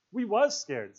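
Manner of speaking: high, loud insistence; excited. A narrator's reading. Piggy contradicts Ralph about being scared, excited. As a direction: insist with agitated force. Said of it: "said Piggy excitedly".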